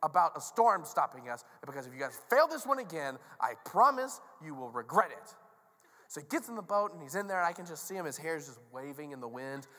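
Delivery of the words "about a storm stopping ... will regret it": stern warning, stressed words pushed louder; exasperated leader giving orders; frustrated Jesus. Acted. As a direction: lay down the law to a hapless crew. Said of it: "he's so frustrated".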